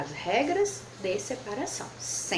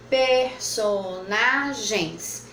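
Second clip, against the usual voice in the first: "Personagens" stretched slowly; slow sounding out; much slower than usual. Shown as a demonstration. Teacher giving pupils the last example. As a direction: spell out "Personagens" slowly in beats. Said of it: "três possibilidades".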